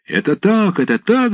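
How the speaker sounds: high chorus of agreement; shouting together. A narrator's reading. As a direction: cheer it out high as a crowd. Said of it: "закричали в один голос все хлопцы".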